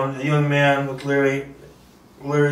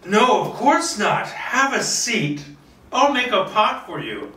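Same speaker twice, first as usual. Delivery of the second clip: put-on higher old lady voice, forcing politeness; forced politeness; 6 semitones higher than usual. Old lady to unwelcome guest, forced polite higher voice. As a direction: hide unease behind a polite offer. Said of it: "Martha's mouth twitches".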